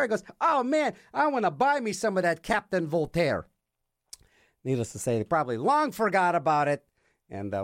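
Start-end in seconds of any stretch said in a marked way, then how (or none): 0.4-3.5 imitated eager buyer, opening high; eager customer. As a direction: play the keen record-store guy. Acts out customer's eager reply.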